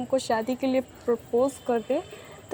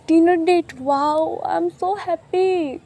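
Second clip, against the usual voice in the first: higher, slowly drawn-out joy; delighted squeal; 4 semitones higher, much slower than usual. Acted. Taehyung delighted about dinner date. (ऊँची, खिंची हुई खुशी)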